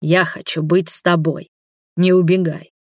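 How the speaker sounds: usual speaking voice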